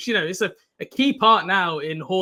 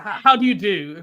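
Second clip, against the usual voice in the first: mock British greeting; 5 dB louder than usual. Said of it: "Let's, let's lean the full British".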